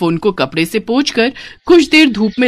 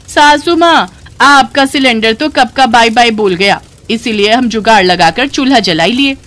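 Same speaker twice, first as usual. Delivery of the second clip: perky village bride; 2 semitones higher, 3 dB louder than usual. Acted. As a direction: answer your mother-in-law proudly. Bride answers mother-in-law.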